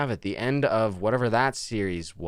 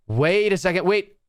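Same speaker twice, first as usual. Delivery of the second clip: surprised; 8 semitones higher, 5 dB louder than usual. Real, not acted. Sudden reaction in game.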